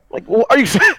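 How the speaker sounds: high, loud mocking disbelief; incredulous. Retelling how he answered the guy asking for vetoes, incredulous. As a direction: hit the question up high, baffled. Retelling his baffled reply.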